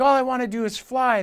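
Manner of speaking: put-on high, lightly whiny little boy; mock crying. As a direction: mildly wail like a let-down child. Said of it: "he's crying".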